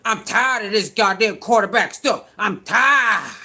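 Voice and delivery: lightly voiced, whining "tired"; mild mock complaint; mock whiny pundit. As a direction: mimic a fed-up pundit half-seriously. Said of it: "that is funny".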